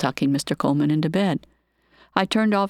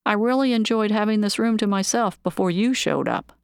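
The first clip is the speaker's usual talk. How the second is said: irritated; 5 semitones higher than usual. Acted. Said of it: "irritatedly greeted him".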